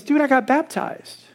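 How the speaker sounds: proud news. Retold or imitated. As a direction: blurt out the good news. Neighbor sharing big news.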